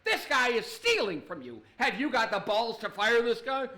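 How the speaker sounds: a touch of indignant pressure; John Taffer mad. Acted. Bar fixer confronting owner about a thief, mild mock anger. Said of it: "he's getting mad all over".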